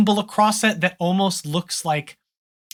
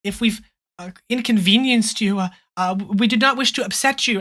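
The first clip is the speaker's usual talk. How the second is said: panicked; 4 semitones higher than usual. Acted. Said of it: "she looks a little panicked".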